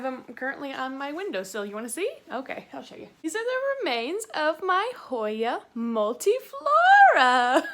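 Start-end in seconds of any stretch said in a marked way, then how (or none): 3.2-7.6 mock mourning. Showing her dead plant, mock mourning.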